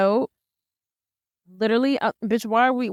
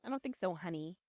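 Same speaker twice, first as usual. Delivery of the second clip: quiet creepy echo; 3 semitones lower, 18 dB quieter than usual. Retold or imitated. Echoing the robot's creepy refusal.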